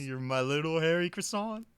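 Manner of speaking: high mock-French teasing; French accent. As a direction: tease in a put-on French accent. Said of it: "in French, you could just do that".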